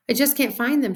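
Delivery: put-on mildly distressed kid; upset girl. A narrator's reading. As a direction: whine helplessly. Worried girl searching for teeth.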